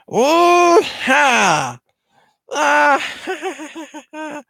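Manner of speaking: very high shrieking cackle; manic alien laugh. Retold or imitated. Kid retelling the movie as Stitch escapes, manic high cackle.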